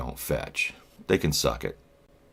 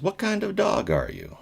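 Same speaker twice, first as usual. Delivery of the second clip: repeated much higher, mocking the boss. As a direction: pitch the repeat way up like a silly interviewer. Boss repeats the odd question.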